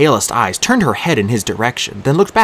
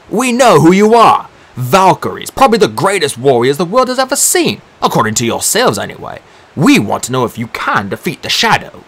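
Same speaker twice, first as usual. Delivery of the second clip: a hint of a loud, sneering magician; mock their pride, then press the question; lightly voiced Dee; 6 semitones higher, 4 dB louder than usual. A narrator's reading. Dee scornfully addressing the Valkyries, lightly voiced.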